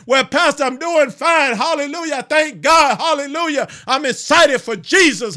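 rally the saints for battle; fired-up preaching. Real, not acted. Preacher rousing the saints to spiritual warfare, fired-up preaching.

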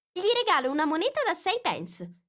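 put-on high, bold girlish challenge; Alice scoffing at the king; defiant Alice. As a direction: speak up boldly to the court. Alice defiantly interrupts court.

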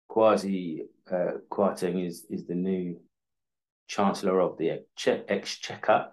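words slurring around loose teeth; loose dentures. Real, not acted. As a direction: talk with dentures slipping out. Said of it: "Put me, put my teeth in".

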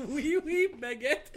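high, loud mock-French exclamation; hammed-up French accent. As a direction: shout it as a cartoon French caricature. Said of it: "Switch to French".

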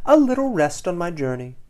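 blissfully unaware; delighted gasp. A narrator's reading. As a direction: start high and float down happily. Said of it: "gasps the poor, foolish fish".

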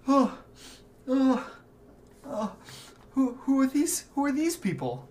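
high, loud startled mother; a mother suddenly noticing strangers. Acted. Mother spots her son's companions, startled and high.

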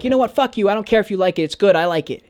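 losing it. Retold or imitated. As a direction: snap back at the acting teacher, high and fed up. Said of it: "loses her shit".

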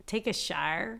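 "shower" said like "shire"; old local pronunciation. Shown as a demonstration. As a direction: make "shower" rhyme with "fire". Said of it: "I used to say".

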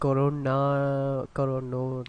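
slow, stumbling attempts at corona; struggling to get the word out; tripping over the word. Real, not acted. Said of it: "It's hard to say".

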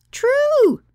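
very high, loud, drawn-out cry; emphatic exclamation. Acted. Katie answering a party quiz, emphatic high exclamation. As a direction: sing out the answer with full conviction. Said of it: "Katie exclaimed emphatically".

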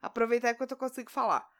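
throat closing up, strained voice; swollen tonsils voice. Real, not acted. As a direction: speak through a swollen throat. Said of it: "minha garganta tá fechando".

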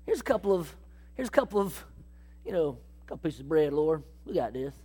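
low, dry, deadpan offering; sarcastic Andrew. Acted. Andrew hands Jesus a few loaves, dry sarcasm. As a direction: drop the voice and sound unimpressed. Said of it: "wondering if he's being sarcastic".

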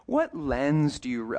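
imitating a Canadian questioner, slowly; attempted Canadian accent. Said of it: "I'm trying to do my Canadian accent".

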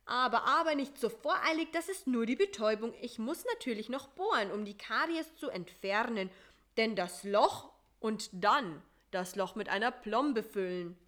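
a hint of a brisk, chatty mosquito dentist; lightly voiced doctor, polite and busy. Voices Doktor Schnake.

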